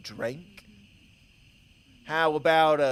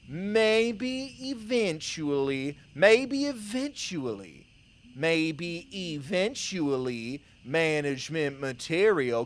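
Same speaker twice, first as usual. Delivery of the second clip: mocking quote. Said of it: "He said".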